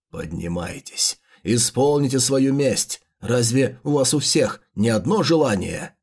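slow, low villain call; slow theatrical villain menace. Acted. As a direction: raise them slowly with dark menace. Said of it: "ты сейчас на сто процентов ведёшь себя как злодей".

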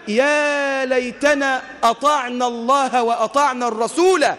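slow, sustained cry of regret; mild acted wail, long vowels; imitated collective scream. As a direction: draw the lament out without shouting. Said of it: "النادمون يصرخون يوم القيامة".

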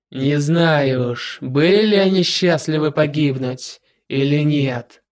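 slow, measured villain; cold calm demon lord, slow. Acted.

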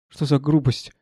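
normal talking voice

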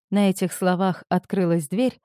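usual speaking voice

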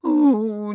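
loud, high drawn-out wail; wailing sob. A narrator's reading. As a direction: let out an unstoppable sobbing howl. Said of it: "не могла остановиться и ревела я".

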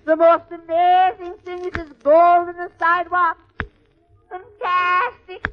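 high, amazed Irish brogue, marvelling; wide-eyed greenhorn in a thick Irish lilt; Irish accent. Acted. Irish newcomer to Sullivan's new land, high amazed brogue. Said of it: "this is an Irish story".

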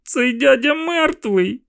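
put-on high, slow, tearful child's voice; a frightened boy breaking into tears; crying boy. A narrator's reading. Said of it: "розплакався я".

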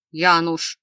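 warning shout. Acted. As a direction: call his name to warn him. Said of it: "предостерегающе вскрикнул Нестор".

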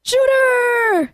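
high excited call. Real, not acted. Calling out a viewer's name.

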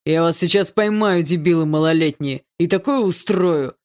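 loud angry yell; shouting at trespasser. Acted. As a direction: bellow at the kids from afar. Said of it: "заорал сторож".

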